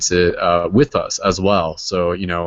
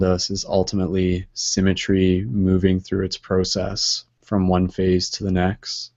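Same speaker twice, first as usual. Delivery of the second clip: guided meditation. Acted. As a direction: guide them gently into calm. Leads centering meditation.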